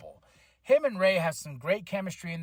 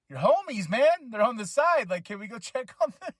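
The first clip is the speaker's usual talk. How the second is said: high-pitched incredulous appeal; mock pleading; 6 semitones higher than usual. Fan urging Rey to help his teammates, mock pleading. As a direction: plead as if yelling at the screen.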